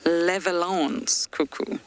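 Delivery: Leveland's said slowly in a French accent. Shown as a demonstration. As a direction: give "Leveland's" a slow French ring. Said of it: "You always have to say that with a French accent".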